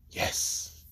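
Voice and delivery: breathy thrilled whisper; excited whisper. Retold or imitated. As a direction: whisper it in delight. Izuku excited at yarn.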